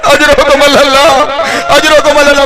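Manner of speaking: drawn-out condolence, then quickening; slow chanted refrain; mourning refrain. Real, not acted.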